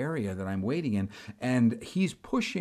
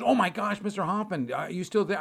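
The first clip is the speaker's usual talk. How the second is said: surprised clerk; 5 semitones higher than usual. Retold or imitated. Retold surprised airline clerk.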